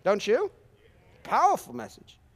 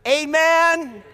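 loud amen; 10 semitones higher, 10 dB louder than usual. Real, not acted. Preacher punctuates reading.

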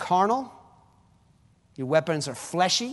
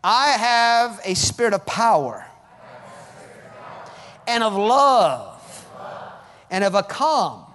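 call and response; 4 semitones higher, 5 dB louder, slower than usual. Shown as a demonstration. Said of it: "Why don't you just say it with me".

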